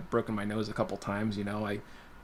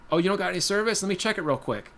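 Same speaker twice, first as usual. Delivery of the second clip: mildly pushy, higher-pitched imitation; pushy bully; 8 semitones higher, 3 dB louder than usual. Bully angling for a teenager's phone, pushy. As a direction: imitate someone pressing for a favor. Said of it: "people trying to bully you".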